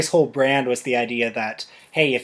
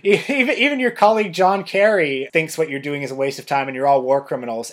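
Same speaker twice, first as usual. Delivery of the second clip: put-on Russian accent. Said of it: "I'm speaking in, like, a Russian accent".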